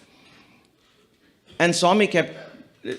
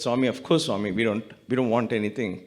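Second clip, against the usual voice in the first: low, softened reassurance, mildly moved; retold tearful plea; 5 semitones lower, 4 dB quieter than usual. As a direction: protest gently in a lowered voice, recalling tears. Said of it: "cried and we said".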